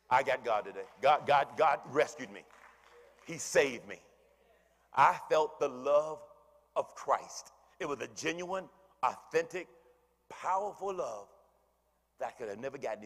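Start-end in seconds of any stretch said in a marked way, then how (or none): 0.1-7.5 louder, fervent churchgoer's praise; joyful testimony. Acted. Preacher voicing a churchgoer, louder and fervent. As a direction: proclaim it like a thankful believer. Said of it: "people go home saying".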